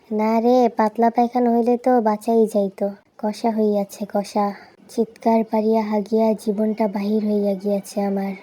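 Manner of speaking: low, slow, solemn complaint in lofty literary Bengali; weary, low-pitched formal moan; mock-formal lament. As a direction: draw out the suffering like a grave old text. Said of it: "সাধু ভাষা ব্যবহার করিলাম".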